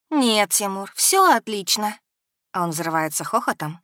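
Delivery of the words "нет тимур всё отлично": lightly voiced simpering girl, drawn out slowly; mocking simpering tone. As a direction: mimic her sugary simper, slowly. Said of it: "передразниваю жеманный тон Дунаевой".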